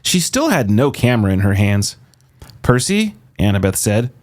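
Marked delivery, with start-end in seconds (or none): 2.6-3.1 high, urgent call of his name; urgent warning. A narrator's reading. Annabeth urgently warning Percy. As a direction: warn him without giving it away.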